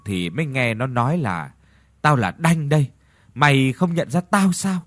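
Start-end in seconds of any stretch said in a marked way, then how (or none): 2.0-4.8 a sad, tearful dead man's voice, mildly done; mournful ghost voice. Retold or imitated. Dead Đanh calling Lò from the grave, mournful and tearful. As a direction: lightly imitate the ghost saying "Tao là Đanh đây" as if weeping. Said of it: "Giọng nói cứ y như là người đang khóc vậy".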